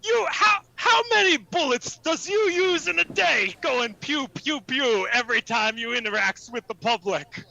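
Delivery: indignant hammed-up Cockney governor; Cockney accent. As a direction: scold in a put-on Cockney. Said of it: "Vegas is doing a Cockney accent".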